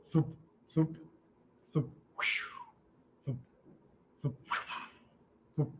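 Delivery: heart sound imitation. Shown as a demonstration. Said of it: "It would be, so".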